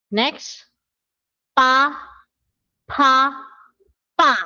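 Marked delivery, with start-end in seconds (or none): 1.5-4.3 first Pa aspirated, then pa tense, then pa plain; three Korean p sounds. Shown as a demonstration. Teacher comparing three p sounds, contrasting p. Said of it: "Comparison nga ng tatlo".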